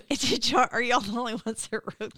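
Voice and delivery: gentle teasing. Pretend. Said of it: "I'm just teasing".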